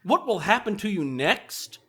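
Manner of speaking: slow, ominous teaser read; dramatic cliffhanger. Acted. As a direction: drag it out for suspense. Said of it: "pausing for dramatic effect".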